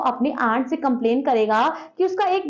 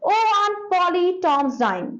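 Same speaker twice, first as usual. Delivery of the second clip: calling out; 6 semitones higher, much slower than usual. Acted. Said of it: "Sid ran downwards and shouted".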